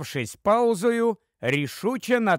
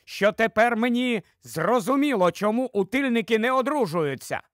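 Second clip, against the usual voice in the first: higher-pitched exclamation, mild shout; sudden outburst; 6 semitones higher than usual. Acted. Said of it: "викрикнув раптом Свенсон". (запальний вигук, не надто гучний)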